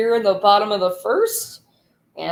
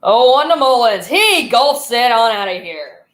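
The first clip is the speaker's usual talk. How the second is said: louder excited call; home run call; 4 dB louder than usual. Real, not acted. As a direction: lift it as the ball goes out.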